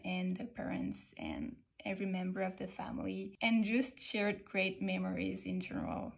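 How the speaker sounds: measured, careful presentation voice; polite video intro. Acted. Recording her au pair profile video for families, careful and polite. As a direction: introduce yourself to host families.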